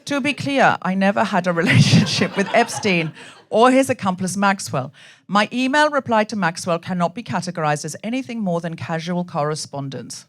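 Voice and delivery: measured cadence with a hint of Slovenian accent; Melania Trump. First lady denying links to Epstein, lightly Slovenian-accented statement. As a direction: lightly imitate a careful Slovenian-accented speech. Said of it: "talk in Melania Trump's cadence".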